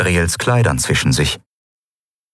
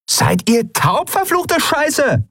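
high, drawn-out furious yell; angry calling; slower than usual. A narrator's reading. Woman at the door to unheeding pirates, shouting angrily. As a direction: stretch each word in an exasperated shout. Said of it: "rief die Frau wieder".

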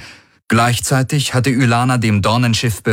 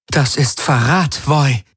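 stern queen voice; 7 semitones higher, slower than usual. A narrator's reading. Ylana accuses the seer.

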